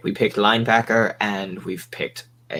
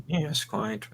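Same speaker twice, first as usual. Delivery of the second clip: voice cracking; 7 dB quieter than usual. Real, not acted. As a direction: voice cracks mid-line. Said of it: "Oh, God, the voice crack there".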